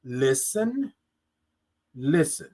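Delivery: soft, slow listen; a gentle inner voice urging; inner spirit voice. Retold or imitated. Her spirit telling her to listen, softly. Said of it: "my spirit was saying".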